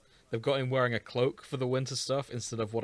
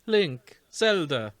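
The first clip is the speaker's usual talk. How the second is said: higher, louder, slow delighted bird call; delighted cry; 8 semitones higher, 5 dB louder, slower than usual. Acted. Tulin greeting Link and Zelda, delighted cry. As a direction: cry out in delight at old friends. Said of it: "Tulin cries, delighted".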